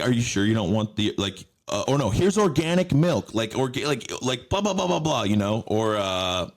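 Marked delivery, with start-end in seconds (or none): 0.0-5.2 high nagging sales pitch; pushy fridge voice. Pretend. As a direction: upsell organic milk like a pushy clerk. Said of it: "it's like".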